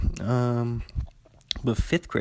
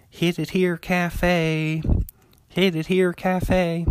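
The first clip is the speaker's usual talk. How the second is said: calling out; 6 semitones higher, much slower than usual. Retold or imitated. Friend in center field taunting the hitter, calling out. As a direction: heckle the batter across the field, sing-song. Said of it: "he just kept saying".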